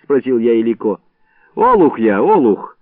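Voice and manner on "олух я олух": louder forced confession; loud admission. Acted. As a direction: shout it as ordered. Пускай громко крикнет.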